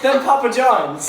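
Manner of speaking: giggling out a guess; laughing. Real, not acted.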